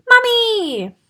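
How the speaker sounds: high, far-carrying glad shout; joyful cry. Acted. Piglets crying to their returned mummy, overjoyed. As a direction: cry out in relief. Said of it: "cried the three little pigs".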